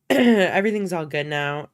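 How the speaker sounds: tired, hoarse voice; a little hoarse and worn out. Real, not acted. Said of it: "why I sound a little hoarse and tired".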